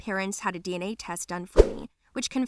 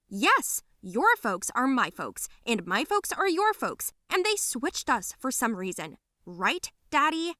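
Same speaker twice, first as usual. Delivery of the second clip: emphatic, mostly higher-pitched retort; heated accusation; 4 semitones higher than usual. Acted. Girl exposing the switch to cousin, heated. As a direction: spell it out bitterly, ending in a challenge.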